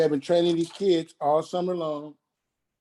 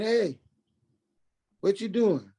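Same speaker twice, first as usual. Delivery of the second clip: higher voice for his mother; mother on phone; 5 semitones higher than usual. Retold or imitated. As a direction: lift the pitch to voice Mama asking. Son voicing his mother's call.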